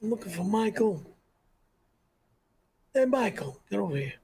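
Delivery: soft, mumbled godfather voice; a quiet, heavy-lidded mob boss; Marlon Brando. Shown as a demonstration. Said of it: "Do Marlon Brando".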